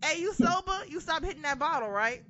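high sarcastic sing-song tease; mocking. Fan teasing Jey Uso about drinking, mocking high voice. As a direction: needle him with mock sweetness. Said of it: "I was like".

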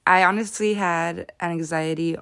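talking with a noticeable lisp. Real, not acted. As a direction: lisp on the s sounds. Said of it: "my lisp is popping right now".

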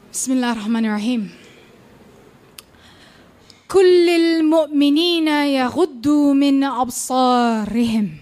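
poetry performance voice, grave and commanding; spoken-word poem. Acted. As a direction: hold the stage and accuse the audience.

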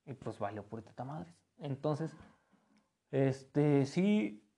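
talking through a yawn; words stretched by a yawn. Real, not acted. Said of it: "Perdón, otro bostezo".

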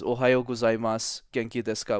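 practised, easy Japanese greeting; Japanese pronunciation. Shown as a demonstration. Speaker shows the host a language example, in practised Japanese. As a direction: switch smoothly into Japanese pronunciation. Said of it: "my pronunciation's perfect across all three".

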